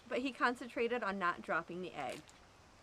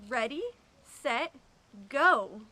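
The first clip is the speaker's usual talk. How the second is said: louder, booming start call; 7 dB louder, slower than usual. Acted. Coach chinchilla booming the race start to the students. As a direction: boom it like a coach. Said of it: "he boomed".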